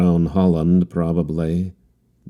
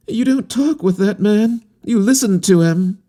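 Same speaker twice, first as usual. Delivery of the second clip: much higher voice, exalted and fervent; severe exaltation; 3 dB louder than usual. A narrator's reading. Harlequin rebuking the captain about Kurtz, high and fervent. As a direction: declare it like a disciple. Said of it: "he exclaimed with severe exaltation".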